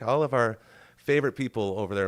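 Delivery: ordinary talk, nothing marked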